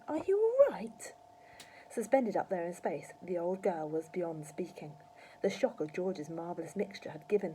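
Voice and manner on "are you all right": put-on high, slow boyish enquiry; polite. A narrator's reading. George asking after suspended Grandma, polite. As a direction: ask slowly with polite concern. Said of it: "asked her politely".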